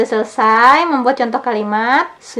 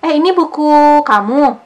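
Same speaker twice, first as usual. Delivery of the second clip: Eh, ini buku kamu asked higher and louder; dialogue question; 5 semitones higher, 3 dB louder than usual. Shown as a demonstration. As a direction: voice the curious friend asking. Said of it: "Nah, oh gitu ya". (bertanya lebih tinggi dan keras seperti teman)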